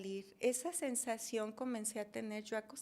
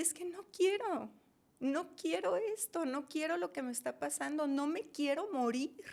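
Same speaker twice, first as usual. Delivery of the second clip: pleading, higher at the start; panicked plea; 4 semitones higher than usual. Retold or imitated. Reliving the fear of dying, retold panicked plea. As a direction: re-enact begging against what is happening.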